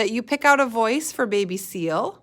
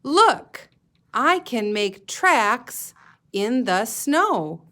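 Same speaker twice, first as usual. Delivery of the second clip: put-on baby seal voice; 3 dB louder, much slower than usual. Teacher reading to kids, voicing baby seal excitedly.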